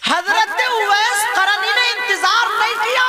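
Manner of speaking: high, loud preacher's cry; fervent sermon shout; preaching at full force. Acted. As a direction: proclaim it to the crowd.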